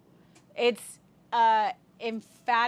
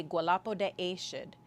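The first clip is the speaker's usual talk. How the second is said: ceremonial call; 2 semitones lower, 3 dB quieter than usual. Retold or imitated. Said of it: "they say".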